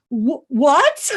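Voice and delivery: high, shrieking laugh of disbelief; stammer, then squeal in amazement; stunned squeal. Retold or imitated. Acts out her stunned reaction.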